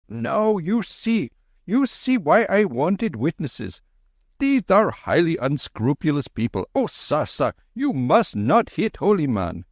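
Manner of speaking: high, pleading and fussy; high babbling Babu voice; frantic Babu. Acted. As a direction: plead like a panicked clerk.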